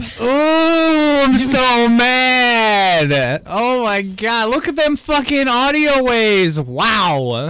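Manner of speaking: long, high-pitched growly roar of anger; over-the-top wrestler fury; Macho Man-like rage. Real, not acted. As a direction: roar it into the mic, stretching every word. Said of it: "you sound like Macho Man".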